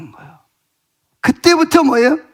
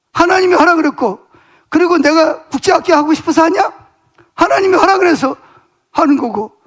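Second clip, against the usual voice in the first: retold heated self-justification, mostly raised pitch; angry retort; 4 semitones higher than usual. Pastor defending himself to his daughter's friend, retold angry retort. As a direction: replay snapping back in annoyance. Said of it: "나도 막 화가 나는 거예요".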